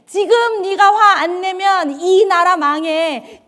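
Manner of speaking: slow, coaxing devil's voice, rising in force; tempting Satan. Retold or imitated. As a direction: lure them into anger, slowly. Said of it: "사탄이 이렇게 얘기하죠". (느리게 부추기는 사탄 목소리)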